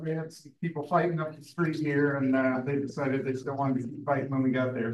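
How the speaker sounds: winded, rushed and breathless; out of breath. Real, not acted. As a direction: talk while still catching your breath. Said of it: "I'm a little out of breath".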